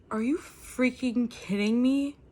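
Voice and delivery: slow, stunned disbelief; can't believe what just happened; shocked disbelief. Real, not acted. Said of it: "I'm about to cry".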